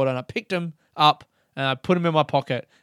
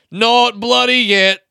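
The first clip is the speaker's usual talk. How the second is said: loutish larrikin; 9 semitones higher, 8 dB louder, slower than usual. Retold or imitated. Hammed-up loutish reply.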